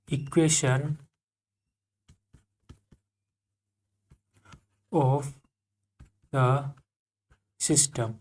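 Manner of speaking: drawn out word by word with long gaps; very slow dictation. Shown as a demonstration. Teacher dictating the topic name, very slow. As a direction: dictate each word for the notebook. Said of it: "क्या है?".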